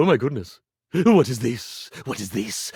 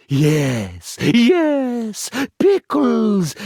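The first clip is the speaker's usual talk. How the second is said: louder, higher pickles; triumphant reveal; 3 semitones higher, 4 dB louder, much slower than usual. Acted. Magician revealing the planted thought, triumphant. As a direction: proclaim the pickles.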